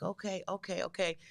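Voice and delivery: soft, hushed imitation of a caller agreeing; Lavish. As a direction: agree quietly, as if keeping it secret. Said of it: "I don't know why he be whispering".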